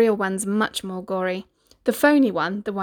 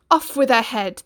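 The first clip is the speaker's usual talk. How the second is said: roar; 3 semitones higher, 5 dB louder than usual. Acted. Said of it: "the prince roared back".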